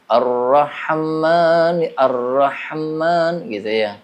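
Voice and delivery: Ar-Rahman drawn out slowly with a false bounce; wrong tawallud. Shown as a demonstration. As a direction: stretch Ar-Rahman and add a faulty echo. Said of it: "kayak qalqalah. Itu bukan qala". (Ar-Rahman dibaca pelan dengan pantulan yang salah)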